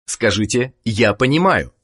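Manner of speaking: ordinary talk, nothing marked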